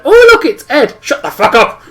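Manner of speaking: imitating friends blowing his cover; squealed greeting turning to a hushed telling-off; excited recognition. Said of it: "obviously I heard".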